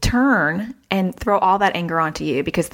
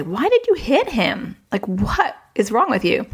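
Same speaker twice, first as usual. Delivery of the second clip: mock angry parent; 4 semitones higher than usual. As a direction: play the fed-up parent at pickup, half-hearted. Angry parent voiced as example.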